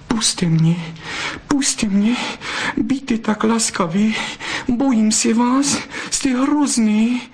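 put-on high, pleading young vixen voice, begging to be let go; plead, scared and breathless with love; frightened vixen. Vixen begs the fox to let her go, high and frightened.

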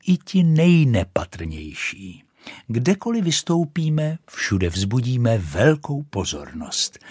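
pompous firework lady; haughty rocket. Acted. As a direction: look down your nose at the duck. Rocket boasts on.

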